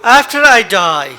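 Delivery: measured dramatic poetry reading; poem recital. Acted. Poet reading his own farewell poem to the audience, solemn.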